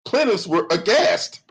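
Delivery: slow, lifted, prissy reading of "Plaintiffs were aghast"; lightly mocking formal voice; mock proper reading. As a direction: read "aghast" like a stiff lawyer. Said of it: "a white person wrote this fucking lawsuit".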